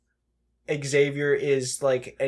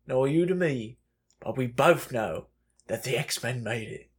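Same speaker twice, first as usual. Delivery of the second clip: Michael Caine. Retold or imitated. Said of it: "I gave you the Michael Caine impression".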